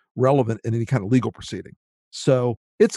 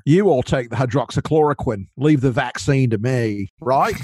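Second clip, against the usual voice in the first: badly faked Aussie accent, played for laughs; terrible Australian accent. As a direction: do a hammy Australian from down under. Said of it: "My terrible accent collection".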